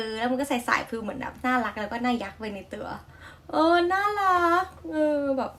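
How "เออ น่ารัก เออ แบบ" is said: เลียนเสียงน่ารักสูงขึ้นเล็กน้อย; ทำเสียงแบ๊วแบบเบาๆ; น่ารัก. Retold or imitated. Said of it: "น่ารักแบบนี้เป็นของเธอนะ". (เลียนเสียงหวานน่ารักของนักร้อง)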